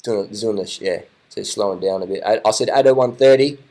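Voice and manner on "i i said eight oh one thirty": insistent, louder prediction. Real, not acted. Insisting on his race prediction.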